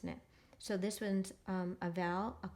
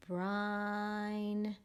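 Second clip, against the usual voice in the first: modeled word. Shown as a demonstration. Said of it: "You try first".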